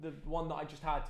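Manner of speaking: quiet aside. Real, not acted. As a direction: drop your voice and fumble for the word. Off-stream aside about his tea order.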